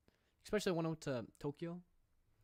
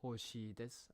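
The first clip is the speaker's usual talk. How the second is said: slow Kansai; much slower than usual. Shown as a demonstration. Slow Kansai phrase read.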